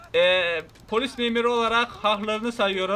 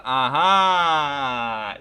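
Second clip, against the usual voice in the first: surprised shout; 6 semitones lower, 6 dB louder than usual. Real, not acted. Spots the thief crow.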